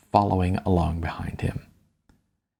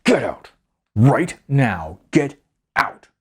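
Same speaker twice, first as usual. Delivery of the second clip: shouted; 3 semitones higher, slower than usual. A narrator's reading. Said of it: "and he shouted".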